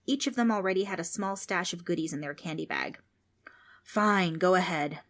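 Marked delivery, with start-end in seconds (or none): 3.8-5.0 resigned sigh. Acted. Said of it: "said the ghost with a sigh".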